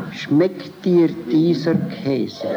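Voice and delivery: slow, drawn-out, sly question; a director showing the line as sneaky. Shown as a demonstration. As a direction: ask it with a hidden catch, slowly. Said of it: "also etwas Hinterhältiges bekommt".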